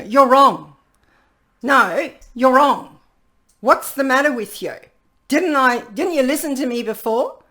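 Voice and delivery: acted scolding. Speaker acting out an accusation, loud and scolding. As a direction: scold them for being wrong.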